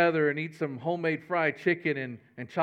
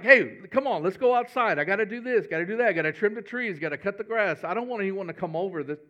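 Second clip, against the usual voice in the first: mock panic. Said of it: "I'm like".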